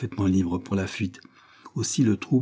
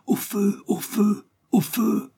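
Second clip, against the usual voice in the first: rising higher with each cry of fire; terrified cries; 13 semitones higher, much slower than usual. A narrator's reading. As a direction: panic climbing with every call. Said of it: "ne cessant pas ses cris".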